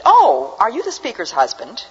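put-on high, surprised old lady voice; little old lady. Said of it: "a little old lady".

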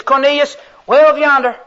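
lightly voiced Southern angel calling out. Preacher voicing the angel to Cornelius, light Southern accent. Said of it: "here's a southern angel".

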